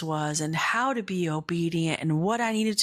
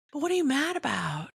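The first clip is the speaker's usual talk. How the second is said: higher, quicker gentle challenge; God's voice; 7 semitones higher, faster than usual. Retold or imitated. God questioning Jonah's anger, light and high. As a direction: ask it like a patient father. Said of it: "And God's like".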